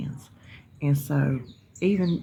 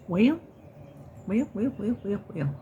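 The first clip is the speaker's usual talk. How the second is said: playful stalling; 5 semitones higher than usual. Real, not acted. Vlogger stalling for a topic, singsong and fading. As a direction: stretch out the wells, trailing off. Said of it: "filling silence".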